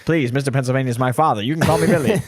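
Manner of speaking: put-on lightly done old-timey gent; a hint of a 1950s charmer; 1950s narrator. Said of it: "We do that voice a lot on the show".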